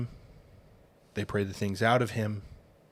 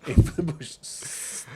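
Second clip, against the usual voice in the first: whispered quote; 5 semitones higher, much slower than usual. Retold or imitated.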